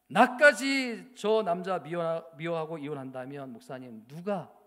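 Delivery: a wronged wife pouring it out through tears; wife tearfully explaining to her pastor; tearful plea. Retold or imitated. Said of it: "그럼 막 울면서 그렇게 이야기하는데".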